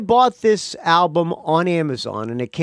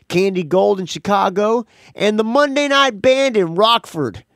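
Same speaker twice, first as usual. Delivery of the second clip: Bunny voice; 5 semitones higher than usual. Shown as a demonstration. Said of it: "doing the Bunny voice".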